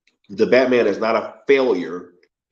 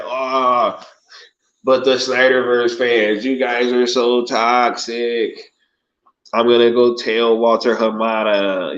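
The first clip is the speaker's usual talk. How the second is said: mocking voice. Mocking critics of Snyder fans.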